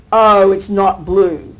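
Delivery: slow, drawn-out and settled; slow dawning acceptance; calm realisation. Retold or imitated. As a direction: let it sink in calmly. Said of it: "then you'd calm down".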